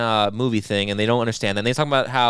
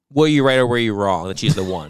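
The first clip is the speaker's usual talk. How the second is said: laughing tease; 3 semitones lower, 4 dB louder than usual. Real, not acted. Teasing friend, laughing.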